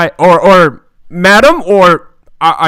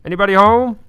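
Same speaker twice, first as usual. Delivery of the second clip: gentle call; 5 semitones higher than usual. Acted. Player knocking on the wall, calling gently. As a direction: gently ask if anyone is in. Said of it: "just gently and just like".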